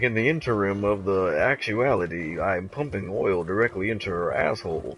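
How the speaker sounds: a mild stab at a smooth executive; business guy voice. Retold or imitated. Mocking the business guy voice he talks about. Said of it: "the business guy voice".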